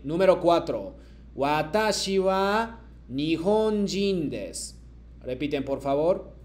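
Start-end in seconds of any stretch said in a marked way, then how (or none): 1.4-4.8 slow, deliberate model sentence; slow model reading. Shown as a demonstration. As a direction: read it slowly for the class to repeat. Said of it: "yo leo y luego ustedes me repiten".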